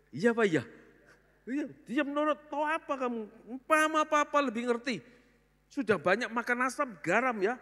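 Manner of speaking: high, loud hammed-up lecturing father; old-fashioned father belittling the child, hammed-up and loud; mock stern parent. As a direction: lord it over the child. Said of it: "orang tua lagi berpendapat".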